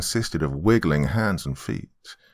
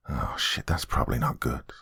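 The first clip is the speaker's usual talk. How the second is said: low, soft, breathy aside; understated dismay, quiet and low; worried muttering; 5 semitones lower, 7 dB quieter than usual. Acted. Narrator reacts to his wound.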